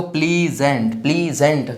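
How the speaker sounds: प्लीजेंट said as प्ली-जेंट, both times; syllable split. Shown as a demonstration. Teacher showing a double-syllable word, प्ली-जेंट in two parts. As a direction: divide each प्लीजेंट after प्ली. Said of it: "double syllable में बोला जाने वाला".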